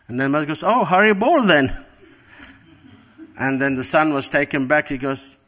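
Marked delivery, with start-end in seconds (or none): 0.6-1.8 a light, bright mother's greeting, higher pitched; cheerful greeting. Retold or imitated. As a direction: greet your son gladly, a little higher. Mother greets monk son cheerfully.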